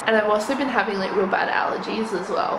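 morning voice. Real, not acted. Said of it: "Morning voice".

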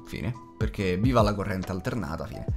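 ordinary talk, nothing marked

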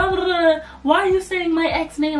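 high, loud mimicry of an irate girl; mock angry snapping. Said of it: "duper mad and started snapping".

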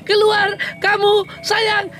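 slow, sweet plea for it to come out; coaxing call. Real, not acted. Vlogger urging a hermit crab out of its shell, slow coaxing. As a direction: lure it gently with a drawn-out voice.

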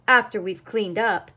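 loud, cross follow-up; stormed. A narrator's reading. Cat calling after departing duck, stormed. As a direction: throw it out crossly and loudly. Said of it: "stormed the cat".

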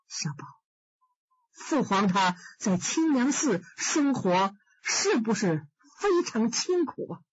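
lightly voiced sad emperor, measured; young emperor.

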